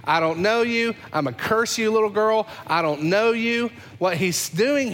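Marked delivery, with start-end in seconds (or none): 0.0-3.7 raised, heated denial; angry denial. Acted. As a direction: shove the accuser away. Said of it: "Peter denies Jesus".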